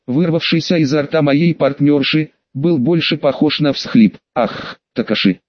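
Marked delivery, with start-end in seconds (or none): 4.3-5.4 lower, gasping out the name; a gasp on the name, pitched down; breathless gasp. A narrator's reading. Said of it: "задыхалась она".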